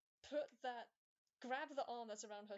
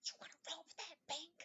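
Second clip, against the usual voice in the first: indignant question; 7 semitones higher than usual. Acted. Repeated scolding question.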